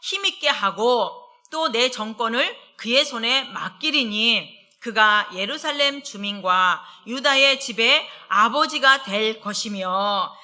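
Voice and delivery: slow, weighty reading of the verse; scripture reading. Acted. Preacher reading scripture to the congregation, slow and weighty. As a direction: read the verse slowly and solemnly.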